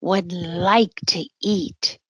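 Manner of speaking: put-on gentle sing-song read-aloud for kids; storybook reading. A narrator's reading. Storyteller reading a rhyming book to children, sing-song. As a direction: read the rhyme to little listeners.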